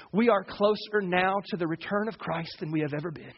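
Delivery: lightly voiced old professor, teasing; a hint of a droning old teacher; imitating old professor. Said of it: "And that's how he talked".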